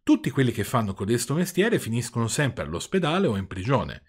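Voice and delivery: calm. Acted. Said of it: "con la sua solita calma".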